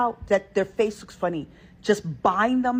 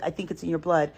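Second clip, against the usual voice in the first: polite; 2 semitones lower, 4 dB quieter, faster than usual. Retold or imitated. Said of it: "I say it in the most polite way".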